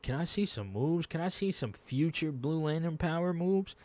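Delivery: lightly imitated wishful begging; acted-out pleading. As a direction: replay your hopeful asking, voice lifted. Acts out own pleading while watching.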